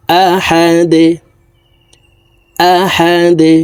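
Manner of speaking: আহাদে with the দ bounced down on a stop; qalqala bounce. Shown as a demonstration. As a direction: push the দ downward with a jolt at আহাদে. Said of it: "ধাক্কা দিয়ে সাকিন করতে হবে". (কলকলা দিয়ে আহাদে)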